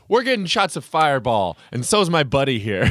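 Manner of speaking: loud mock Aussie voice; Australian accent. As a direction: lads shouting an order. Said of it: "they're like".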